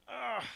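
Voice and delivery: drawn-out, soft "ugh"; uneasy groan. Acted. Listener hearing talk of hypocrisy, uneasy groan. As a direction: groan with discomfort at the thought.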